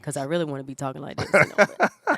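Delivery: raspy sick voice; hoarse, like a smoker. Real, not acted. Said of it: "Even though I sound like a, a smoker".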